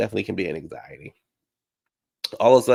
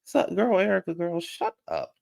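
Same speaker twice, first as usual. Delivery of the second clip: tag; 9 semitones higher than usual. Real, not acted. Fed up with Erica.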